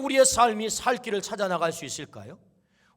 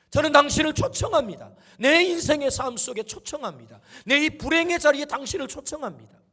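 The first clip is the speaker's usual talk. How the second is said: raised, urgent preacher's plea; impassioned acted prayer; acted crying out; 4 semitones higher, 4 dB louder than usual. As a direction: call out to the Lord, higher and louder. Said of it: "이 소리 지름은 그냥 소리 지름이 아닙니다".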